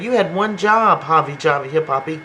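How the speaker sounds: mock scolding. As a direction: snap at him like a fed-up boss. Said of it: "she said".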